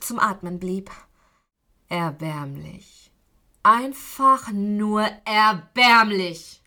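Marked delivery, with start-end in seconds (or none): 1.9-3.1 contempt. Acted. Kidnapper sneers at captive. 3.6-6.6 slow, loud, drawn-out scorn; contemptuous sneer. Acted. Kidnapper scorns his captive, slow and loud.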